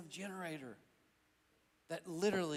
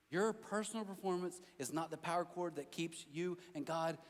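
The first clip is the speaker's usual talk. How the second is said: usual speaking voice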